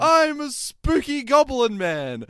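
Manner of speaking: high, loud, slow goblin squeal; hammed-up spooky goblin; silly high monster voice. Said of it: "And it goes".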